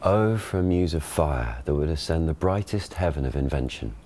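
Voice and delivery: received pronunciation stage reading; modern RP Shakespeare. Shown as a demonstration. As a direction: classic RP verse delivery. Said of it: "Ben gives the modern pronunciation".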